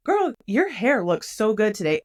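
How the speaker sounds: genuine compliment. Acted. Woman compliments a stranger on the street, genuine gushing. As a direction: gush it slowly, like you truly mean it. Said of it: "they can tell that I'm legitimate".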